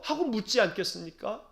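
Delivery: usual speaking voice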